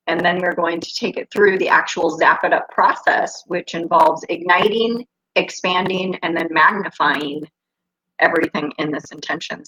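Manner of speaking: muffled, like talking underwater; bad connection, muffled sound. Real, not acted. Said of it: "Sounds like I'm underwater for you".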